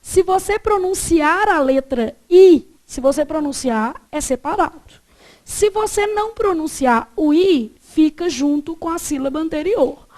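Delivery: slow, measured classroom dictation; deliberate, slow rule-giving with drawn-out key words; teacher stating rule. Retold or imitated. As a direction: lightly imitate a teacher spelling out a rule. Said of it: "Ela falou assim, ó".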